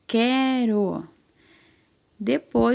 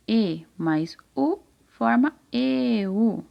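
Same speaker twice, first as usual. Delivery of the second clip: slow blending; 2 semitones higher, much slower than usual. Shown as a demonstration. Teacher blends vowels for children.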